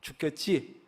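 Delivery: a hint of a hushed tempter; Satan quietly tempting a believer, mildly hushed; Satan whispering. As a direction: lean in and coax softly, not fully whispered. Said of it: "속삭입니다".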